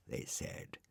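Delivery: soft whispered narration; whispering. A narrator's reading. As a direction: breathe the words out.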